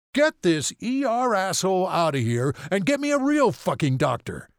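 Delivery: high, loud angry yell; furious yelling. A narrator's reading. Father yelling from the hospital hallway, furious. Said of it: "his father's unmistakable voice yelling".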